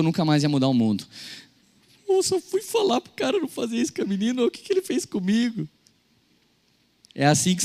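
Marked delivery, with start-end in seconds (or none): 2.1-5.7 put-on hurt childish complaint. Child complaining after being punched.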